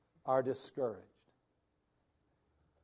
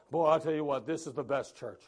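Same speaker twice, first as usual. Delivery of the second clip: louder, eager boasting; gushing churchgoer; 5 dB louder than usual. Retold or imitated. Churchgoer boasting about the church and pastor, eager. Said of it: "before they were all".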